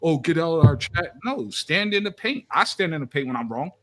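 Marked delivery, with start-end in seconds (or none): 0.0-1.1 mock crybaby whine. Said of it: "sitting here crying like".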